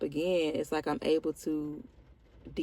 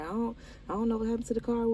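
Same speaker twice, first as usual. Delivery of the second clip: retelling his frantic panic, high and rushed; panicking; 6 semitones higher, much faster than usual. Retold or imitated. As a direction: blurt it out fast like a man in a panic.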